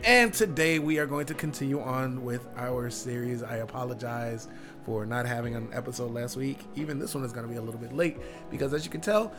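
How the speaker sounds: lost voice, rough and strained; hoarse voice. Real, not acted. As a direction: speak through a worn-out hoarse throat. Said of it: "I've lost my voice".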